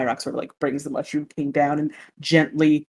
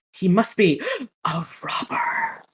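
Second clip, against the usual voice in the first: dramatic gasp; 4 semitones higher than usual. Acted. Dramatic puppet narration.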